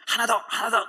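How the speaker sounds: loud, high gym coach push; trainer shouting. Retold or imitated. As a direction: bark encouragement like a trainer.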